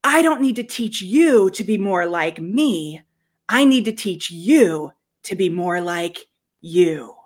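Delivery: slow, earnest cartoon-panda line; lightly voiced Po, slow; Po's line. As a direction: let each word land slowly, like Po. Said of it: "and he says".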